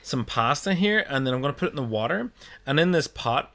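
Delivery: hammed-up Italian cooking-show accent; lightly mock an Italian chef. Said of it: "when they'll go".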